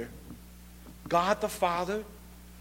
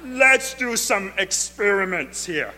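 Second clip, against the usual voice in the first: loud, hammed-up divine boss voice; God; 4 dB louder than usual. Preacher as God proposing experiments to the angels, hammed-up loud voice. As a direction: boom it out as a jokey creator. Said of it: "I think God talks like that".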